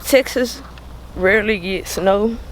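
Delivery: talking around a grill; slightly muffled by mouth grill; wearing teeth grill. Real, not acted. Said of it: "Sorry the way that I'm talking because I got a grill in my mouth".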